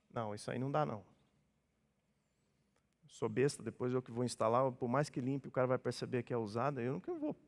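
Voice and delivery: low, subdued retold refusal; low and soft grumbled refusal; wary refusal. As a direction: refuse under your breath, as if retelling it. Acting out his wary refusal.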